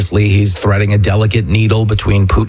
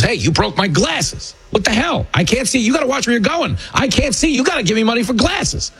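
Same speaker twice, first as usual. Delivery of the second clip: high, whiny hustler faking outrage; street hustler; 12 semitones higher than usual. Retold or imitated. Hustler to tourist family, high whiny fake outrage. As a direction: squeal like a con man with broken glasses. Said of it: "drops his broken glasses on the ground and goes".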